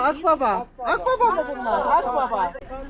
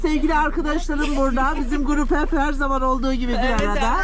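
upbeat presenter greeting viewers; cheerful travel vlog opener; vlog host intro. Acted.

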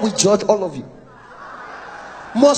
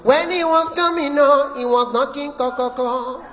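high note; 4 semitones higher than usual. Retold or imitated. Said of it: "Mama Okoro".

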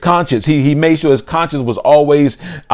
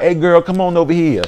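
higher, coaxing come-on; dude calling; 5 semitones higher than usual. Acted. Dude phoning a girl to come over, coaxing. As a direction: playfully voice a man inviting a girl over. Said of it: "that dude call you and be like".

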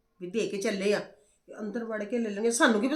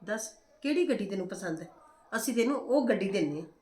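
loving coax; 2 semitones lower, 5 dB quieter than usual. Retold or imitated. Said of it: "ਅਸੀਂ ਤੈਨੂੰ ਪਿਆਰ ਨਾਲ ਪੁੱਛਣਾ".

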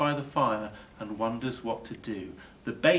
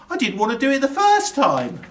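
higher, louder complaint; grumbling burglar; 13 semitones higher, 10 dB louder, faster than usual. A narrator's reading. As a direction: protest with a sore nose. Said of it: "says Burglar Bill".

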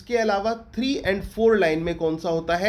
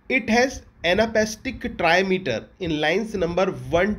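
slow, even note-reading voice; teacher dictating a line of notes; slow dictation; much slower than usual. Shown as a demonstration. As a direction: read it out slowly for students to copy. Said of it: "reading the notes aloud".

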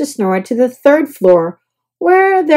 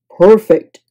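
louder, content; satisfied; 3 semitones lower, 7 dB louder than usual. A narrator's reading. Guest to bellhop, satisfied. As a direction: relish it.

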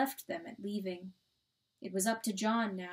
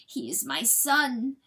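slow, louder, anguished claim; grieving insistence; 3 semitones higher, 5 dB louder, slower than usual. A narrator's reading. Coyote talking where the weasel had been, grieving. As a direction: insist it through grief.

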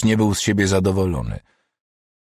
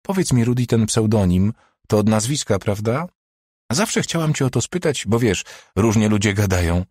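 higher, suddenly friendly and curious; softer, friendlier tone; 4 semitones higher than usual. Acted. Doctor turns friendly and curious toward Rudi. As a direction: switch to a personal, chatty tone. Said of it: "niespodziewanie zmieniła ton".

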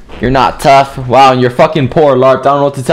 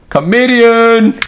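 slow, higher sarcastic jab; mocking jeer; 9 semitones higher, much slower than usual. Real, not acted. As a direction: sneer the word at him. Mocking the other player's joke.

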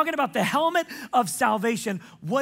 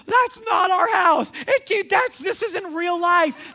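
high, louder, slow overwhelmed disbelief; stunned disbelief; 9 semitones higher, 5 dB louder, slower than usual. Retold or imitated. Family stunned in front of their new home, high and slow. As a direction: voice it like someone in shock. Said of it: "they're saying things like".

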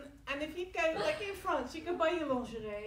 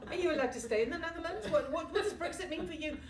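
nosy questioning; 5 semitones higher, 8 dB louder than usual. Retold or imitated. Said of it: "They're like".

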